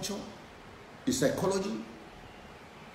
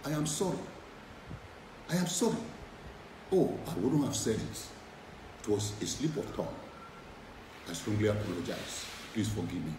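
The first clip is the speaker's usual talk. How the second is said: sincere apology; 5 semitones lower, 5 dB quieter than usual. Shown as a demonstration. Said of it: "just say".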